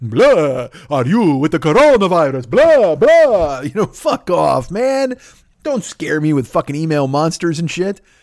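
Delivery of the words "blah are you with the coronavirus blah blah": put-on horror movie monster voice. Imagining a Dracula phoning you, done in a Dracula voice. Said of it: "Have a fucking Dracula call you".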